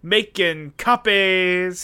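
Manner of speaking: slow, drawn-out copy guy voice; making copies guy. Retold or imitated. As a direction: stretch out making copies like the sketch character. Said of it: "the making copies guy impression".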